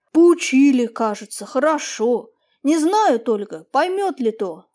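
a touch of sadness, slow at the end; doubtful father mourns his son's lesson; sad tone. Acted. Old peasant tells the master sadly about his son. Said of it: "грустным тоном".

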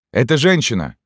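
high, loud call to the soldiers; exclaiming. A narrator's reading. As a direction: announce it sharply, pitch up. Sutler explains to soldiers.

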